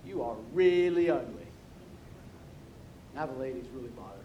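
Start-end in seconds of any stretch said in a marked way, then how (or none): 0.1-1.5 heckling parrot, big call and deliberate jab. Acted. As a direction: holler it like a rude parrot. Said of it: "the parrot goes".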